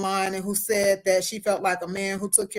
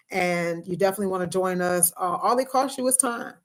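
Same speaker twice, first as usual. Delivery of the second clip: talking around braces and retainer; speech slurred by a retainer; wearing a retainer; 2 semitones lower than usual. Real, not acted. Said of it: "y'all see I got my retainer in, got my braces on, so that's why I'm talking a little funny".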